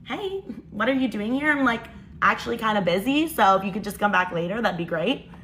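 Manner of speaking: imitating a breezy, unbothered sister; casual, mock-innocent brush-off; carefree. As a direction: act like nothing is wrong. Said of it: "like she doesn't have a care in the world".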